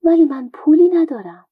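a poor man's scared protest; trembling voice. Acted. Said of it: "با صدای لرزان گفت".

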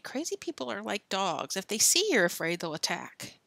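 hushed. Acted. Scared boys near madman.

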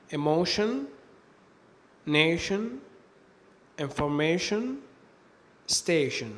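"emotion", "nation", "information", "station" ending in shen; tion as shen. Shown as a demonstration. Teacher giving examples of the tion ending, "emotion", "nation", "information", "station" with shen. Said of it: "تنطق هذه السلسلة شن".

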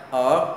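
"Ở" from the throat with an r colour; throaty, tongue-curled Ở. Shown as a demonstration. Teacher repeats for learners, throaty curled "Ở". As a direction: curl the tongue and sound "Ở" in the throat. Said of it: "uốn lưỡi lên và đọc ở cổ họng".

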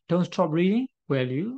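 don't stop reading said very slowly, word by word; slow example read. Shown as a demonstration. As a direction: read the example slowly so students can follow. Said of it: "Negative imperative".

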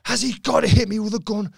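lightly imitating a shocked co-star; mock actress voice. Actress questions being hit.

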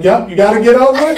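brisk wife. Retold or imitated. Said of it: "So it's like".

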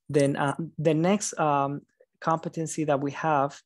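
halting, stumbling over words; tired speech at 2 AM; stuttering. Real, not acted. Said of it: "I apologize if I'm stuttering".

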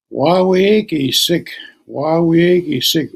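a lightly voiced old man, savouring it. Old man telling her his name.

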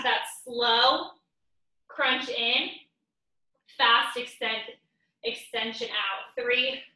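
tired from a workout; counting while straining; exercising while talking. Real, not acted. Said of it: "My glutes are so tired already".

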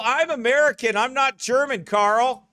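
normal talking voice

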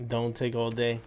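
low gruff echo of Kratos; Kratos impression. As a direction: growl the line back like Kratos. Echoing Kratos's game line.

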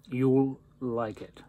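talking around pipe stem; pipe in mouth. Real, not acted. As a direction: lips gripping pipe. Seen 5: Pipe stem in mouth; briefly out 2.4-2.7, back from 3.0.

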